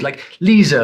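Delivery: "Lisa" ending in an added r, "Leezer"; intrusive R. Shown as a demonstration. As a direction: put an r on the end of "Lisa". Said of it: "It's intruded".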